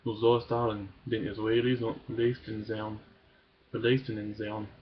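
measured, earnest poem reading; deliberate recital of a political poem; poem recitation. Acted. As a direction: read it out phrase by phrase, pausing at line breaks. Reads a poem aloud.

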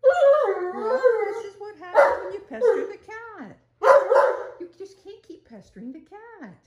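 high, sing-song voice for the cat. Real, not acted. High baby talk to pet.

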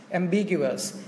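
"Ambiguous" stressed on the second syllable, bi. Shown as a demonstration. Teacher repeats Ambiguous for students, stress on the bi syllable. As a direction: lean on BI in "Ambiguous". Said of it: "trọng âm nó rơi vào âm B".

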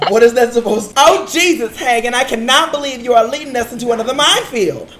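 lightly put-on gay guy voice; a hint of hammed-up gay guy. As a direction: exclaim it in a playful, affected gay guy voice. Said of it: "say this in your gay guy voice".

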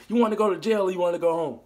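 fast, stern cop threat; Denzel cop line. Retold or imitated. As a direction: hit him with the Denzel move. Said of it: "that Denzel move".

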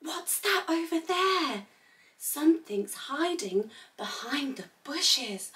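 soft, secretive wondering; hushed suspense. Pretend. Teacher leading children past something in the bushes, hushed. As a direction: keep it down, as if something is hiding. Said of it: "We need to be quiet".

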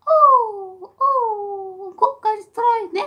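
high, loud whiny dog voice; voicing the dog. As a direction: whimper like a needy pet. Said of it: "macht so". (hohe, laute Hundestimme)

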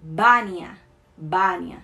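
Bania with an open A, no nasal sound. Shown as a demonstration. Teacher modelling Bania for Spanish learners, open A. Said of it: "aberto, ele sempre vai ser aberto".

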